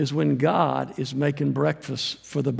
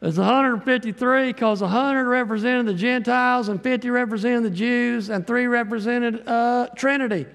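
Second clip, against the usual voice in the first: higher, lecturing scholar voice; learned theologian; 5 semitones higher than usual. Retold or imitated. Preacher mimicking Cyril of Alexandria explaining the fish, higher and lecturing. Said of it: "Cyril of Alexander said".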